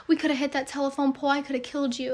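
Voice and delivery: quick, panicky retelling of her friend's words; imitating a freaked-out friend. Telling viewers how panicked friend Abby sounded after near crash, rushed and frightened. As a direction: mimic a scared friend's rushed outburst, lightly. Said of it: "'cause she was freaking out".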